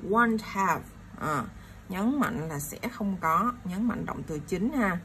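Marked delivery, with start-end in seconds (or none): 0.0-0.8 both "won't" and "have" given a beat; stress on WON'T HAVE. Shown as a demonstration. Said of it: "từ nhấn mạnh của mình". (nhấn mạnh cả "won't" và "have")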